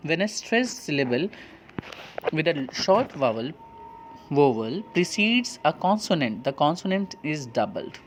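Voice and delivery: slow rule reading. Shown as a demonstration. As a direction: read the textbook rule word by word, very slowly. Reads rule aloud slowly. (नियम को बहुत धीरे-धीरे पढ़कर सुनाना)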